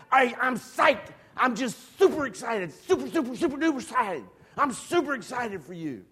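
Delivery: mock enthusiasm. Nervous mock enthusiasm in reply.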